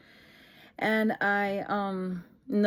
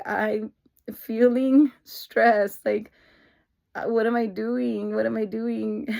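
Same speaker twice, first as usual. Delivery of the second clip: retold breakdown; 2 semitones higher, 6 dB louder, slower than usual. Breaking down on the phone to brother, retold breakdown. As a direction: draw out the stress, imitating yourself bawling. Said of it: "I just started bawling my eyes out".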